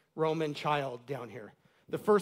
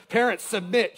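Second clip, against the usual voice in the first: mock wrong version; 4 semitones higher, 9 dB louder than usual. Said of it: "You submit to your kids, right?".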